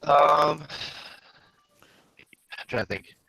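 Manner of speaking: glitchy robot mic voice. Real, not acted. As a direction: sound like a broken robot mic. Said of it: "You sound like a robot".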